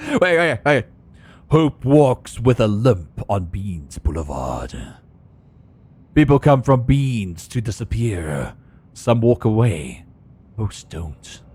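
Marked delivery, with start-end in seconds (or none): 1.5-11.4 noir voice. Acted. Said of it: "reading noir lines".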